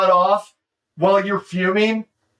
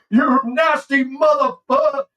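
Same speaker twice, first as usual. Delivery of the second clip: quoting movie line; 5 semitones higher than usual. Retold or imitated. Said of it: "I love his delivery".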